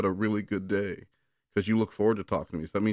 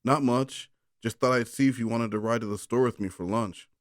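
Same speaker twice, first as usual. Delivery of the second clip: lightly voiced Derek; 2 semitones higher than usual. Derek asking Aaron to ride to the store. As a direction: answer casually as Derek. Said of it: "Aaron replied".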